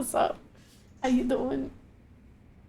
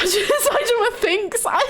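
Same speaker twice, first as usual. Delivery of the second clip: slow, laughing out the name; cracking up mid-sentence; 11 semitones higher, slower than usual. Real, not acted. Laughing at the game character.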